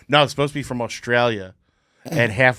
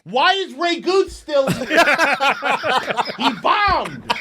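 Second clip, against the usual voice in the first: snooty casting director; 3 dB louder than usual. Pretend.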